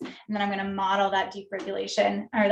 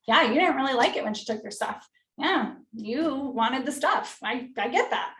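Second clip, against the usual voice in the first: reflecting feelings; 2 semitones higher than usual. Shown as a demonstration. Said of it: "reflect both feelings".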